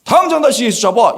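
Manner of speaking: high-pitched, urgent mock command; playing an irate boss; acted angry order. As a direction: demand it done at once.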